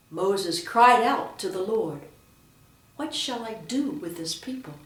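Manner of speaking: "cried out" swelling loud in proclamation; expressive reading, loud weight on "cried out"; stress on verbs. Shown as a demonstration. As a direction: push out "cried out" with force. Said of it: "with emphasis on the verb".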